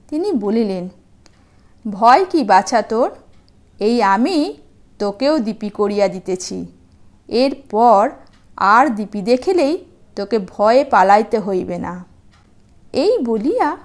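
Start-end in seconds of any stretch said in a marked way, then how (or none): 1.9-12.0 kindly sage. Acted. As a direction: comfort the little one like a wise hermit. Kind sage comforts frightened dog.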